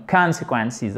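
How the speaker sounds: CONSEQUENCES with a long stressed first vowel; accent et voyelle longue. Shown as a demonstration. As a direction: lean on the CON of CONSEQUENCES. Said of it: "accent tonique ici et voyelle longue". («consequences», «con» long et accentué)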